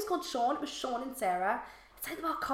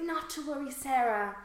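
posh reassurance; 4 semitones higher than usual. Retold or imitated. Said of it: "so I just sort of started, like, matching".

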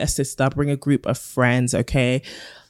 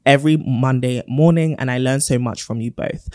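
letter reading. Acted. Reads a listener letter.

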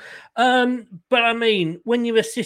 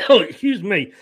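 coughing after choking on a drink; choking on a drink, clearing the throat; 4 dB louder than usual. Real, not acted. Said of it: "Just choking on me, on me drink".

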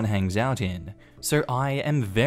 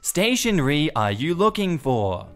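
strained patience; 2 semitones higher than usual. Retold or imitated. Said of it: "seriously trying not to scream".

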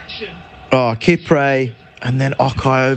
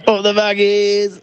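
higher, stretched-out team chant; fan's cheer; 6 semitones higher than usual. Real, not acted. Fan cheering his team after the goal, drawn-out cheer. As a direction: draw out a rallying cry.

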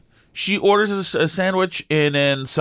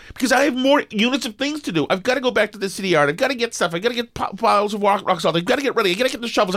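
frantic list; 6 semitones higher, faster than usual. Retold or imitated.

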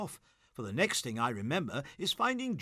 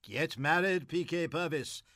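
earnestly; 2 semitones higher than usual. Acted. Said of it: "said Gussie earnestly".

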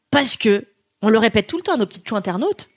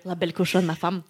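quiet giggling tease; laughing softly; 5 semitones lower, 7 dB quieter than usual. Real, not acted. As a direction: tease her through soft laughter. Teasing laugh.

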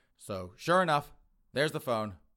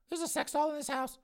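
very high-pitched disbelieving question; incredulous. Acted. Girlfriend finding out about the doll, incredulous. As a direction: squeak it out in disbelief.

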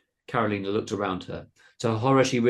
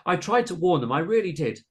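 high, urgent plea; pleading; 9 semitones higher, 5 dB louder than usual. A narrator's reading. Carolina defending herself to Missus Cabbage, pleading. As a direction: plead your case at high pitch. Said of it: "pleaded Carolina".

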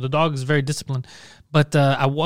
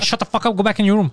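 raised, bossy order at the cat; yelling at the cat; 4 semitones higher than usual. Retold or imitated. Man ordering the noisy cat back into its room, angry.

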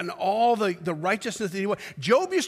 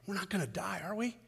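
soft anxious question; 11 dB quieter, faster than usual. Retold or imitated. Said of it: "You've got Habakkuk saying".

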